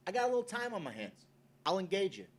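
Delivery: rising to a loud snap; mock angry outburst. Driver telling off a stranger, mock angry yell. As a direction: tell him off, ending in a sudden shout. Guy snapping at someone on drive.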